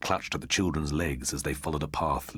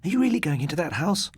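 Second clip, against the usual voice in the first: breathless question; 13 semitones higher, 4 dB louder than usual. A narrator's reading. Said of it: "asked Dawn Sheehan breathlessly".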